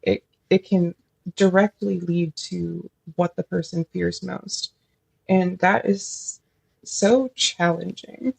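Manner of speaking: nervous stammer, repeating words; stuttering. Real, not acted. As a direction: stumble over the start of phrases. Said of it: "I feel like I'm stuttering a little bit".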